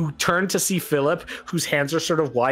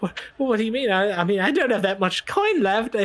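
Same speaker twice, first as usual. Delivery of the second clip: put-on puzzled girl; 6 semitones higher than usual. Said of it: "She's like".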